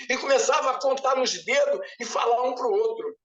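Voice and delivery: usual speaking voice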